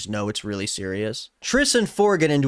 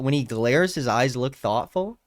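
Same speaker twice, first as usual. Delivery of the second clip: mocking reread.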